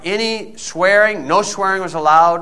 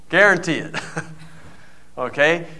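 laughing; 5 dB quieter than usual. Real, not acted. Laughing at own story.

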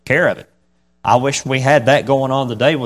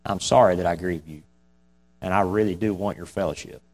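softer, sincere prayer; 3 semitones lower, 6 dB quieter than usual. Shown as a demonstration. A believer praying to the Holy Spirit, softly and sincerely. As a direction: pray it gently and sincerely. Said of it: "you need to pray".

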